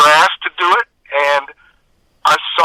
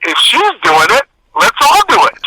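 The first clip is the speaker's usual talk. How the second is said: imitated classmates; 8 semitones higher than usual. Classmates joining in the bullying.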